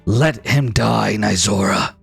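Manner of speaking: low slow whispering god; slow low divine whisper in her ear. Acted. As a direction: murmur it like a tempting god. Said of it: "he whispers in your ear".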